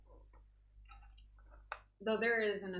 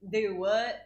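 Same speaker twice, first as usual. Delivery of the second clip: Texan drawl; 5 dB louder than usual. Retold or imitated. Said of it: "And I'm like".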